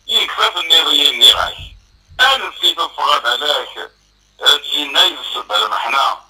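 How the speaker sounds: measured verse delivery with pauses between lines; spoken poetry in rhythmic phrases; poem recitation. Acted. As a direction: recite it line by line, pausing after each.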